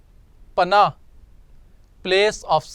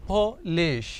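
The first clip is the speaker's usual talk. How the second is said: split into syllables; 4 dB quieter than usual. Shown as a demonstration. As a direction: lay out polish in its two syllables. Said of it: "तो ये दो syllables का word है".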